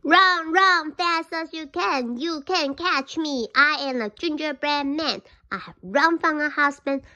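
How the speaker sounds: a mild mock shout from a cocky cookie; loud taunt. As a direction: yell it so the deaf fox hears. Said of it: "in a very loud voice".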